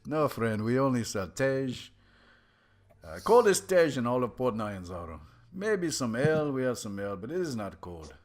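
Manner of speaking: put-on loud, hearty barkeep with an accent; jolly bartender. Bartender boasts of his cold Tej, loud and hearty. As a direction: play the proud tavern keeper.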